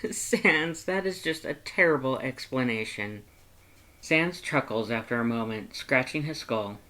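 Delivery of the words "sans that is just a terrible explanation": laughing. Acted. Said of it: "You have to laugh at that".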